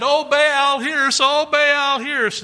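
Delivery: high, loud chanting cry to Baal; pleading prophets. Acted. Prophets of Baal calling out to their god, high, loud and pleading. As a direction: wail up to an absent god.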